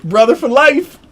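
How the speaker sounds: high, sing-song mock catchphrase; playful impression of a friend's catchphrase; imitating Narcy's catchphrase. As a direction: toss off a friend's signature line, hammed-up. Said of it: "That's what he says".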